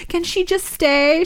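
high, drawn-out begging; imitated tearful pleading. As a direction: plead slowly like an upset child. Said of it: "She had tears in her eyes".

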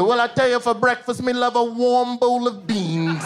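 slow mock British accent; hammed-up British breakfast chat. Idris in interview, slow hammed-up British accent. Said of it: "you saw him in the interview".

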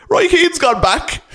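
high, slow country mother voice with a laugh; mum's country voice. Retold or imitated. Mum knocking in at dawn, high and slow. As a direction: announce it like a sixty-year-old country woman. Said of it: "she'd be like".

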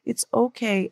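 imitating a child's soft comforting. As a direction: gently reassure mom, hushed. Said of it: "And very softly, he said".

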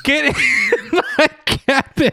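high cackling witch. Pretend. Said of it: "sounds a lot like a witch".

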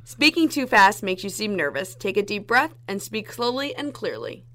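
demonstration read. Shown as a demonstration. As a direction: read it out clearly for a contest. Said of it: "read that same line".

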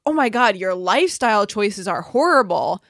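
loud scandalised "Oh my God"; mock the shocked judgers; judgmental gasp. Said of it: "people are like".

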